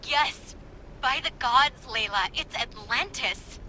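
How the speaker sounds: loud, high cry of joy; thrilled outburst. Acted. Assistant seeing Atlantis on the feed, loud joyful cry. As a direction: shout it like a dream come true.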